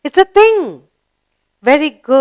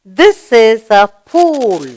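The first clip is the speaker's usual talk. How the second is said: slow and a bit louder, word by word; slow model reading; 4 dB louder, slower than usual. Shown as a demonstration. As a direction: read it clearly for children to repeat. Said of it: "Let's read the sentence".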